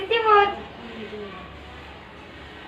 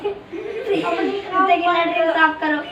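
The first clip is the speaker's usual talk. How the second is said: slow words broken by laughter; laughing while talking back; laughing tease; slower than usual. Pretend. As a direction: giggle through a cheeky line. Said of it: "उल्टा बोलेगा?".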